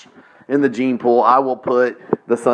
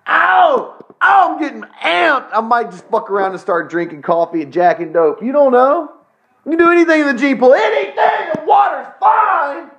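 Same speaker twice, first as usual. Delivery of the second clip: manic frenzy; 13 semitones higher than usual. Real, not acted. Host works himself into a frenzy on the podcast, squealing shouts. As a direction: whip yourself into a manic frenzy. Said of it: "work myself up into a frenzy".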